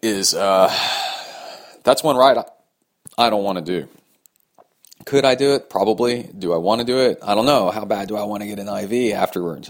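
speaking while hiccuping; with hiccups. Real, not acted. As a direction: talk with hiccups. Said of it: "Man, I got the hiccups".

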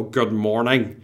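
North Down "good morning" from the back of the throat; throaty, nosy North Down greeting; North Down accent. Shown as a demonstration. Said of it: "from the back of your throat".

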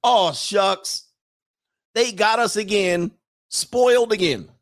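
high-pitched, hammed-up lament; mock-helpless whine, dragging out the last words; defeated local man. Local men beaten by French guys again, mock lament.

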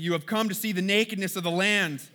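accusing. Acted. Acted accusation continues.

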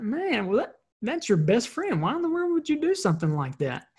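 put-on baffled parent questioning a child; incredulous dad. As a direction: ask in baffled reproach, pitch climbing. Dad questions son in retold story.

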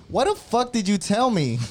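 angry outburst. Retold or imitated. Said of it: "What I said was".

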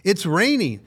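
put-on English accent. Bus driver warning about the rain, in a weak English accent. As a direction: imitate the London driver's English accent loosely. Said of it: "I can't do an English accent".

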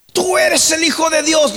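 very high, impassioned cry; high-pitched outcry. Acted. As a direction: proclaim it like demons crying before Jesus. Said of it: "gritaban diciendo".

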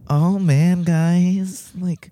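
high, whiny, lazy complaining voice; mock vocal fry. Shown as a demonstration. Demoing vocal fry to his co-hosts, high whiny mock complaint. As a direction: play a bored whiny kid. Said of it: "it's the vocal fry, isn't it?".

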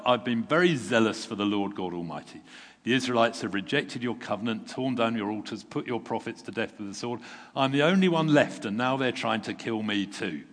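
building up to a loud cry on only one left; a worn-out prophet protesting to God; exasperated complaint. Acted. Elijah pours out his complaint to God, rising to a loud exasperated cry.

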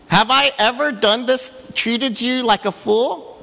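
high pleading donkey voice. Retold or imitated. The donkey complaining to Balaam, high pleading voice. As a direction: plead like a hurt animal. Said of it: "And then all of a sudden was like".

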